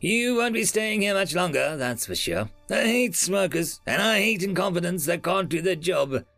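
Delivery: attaché's high-pitched scornful berating; acid contempt. A narrator's reading. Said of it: "the attaché said acidly".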